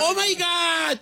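high, hammed-up "oh my God"; exaggerated offended imitation; mocking exclamation. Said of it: "eso no se dice un vato".

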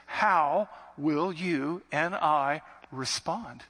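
slow, weighted question; slow challenge. Acted. Preacher challenging listeners how to respond, slow. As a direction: draw out the question to the people.

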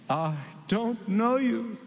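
very slow, cold refusal; the bridegroom's slow, final rejection; stern bridegroom. Acted. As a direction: draw each word out like a closing door. Bridegroom rejects the foolish ones.

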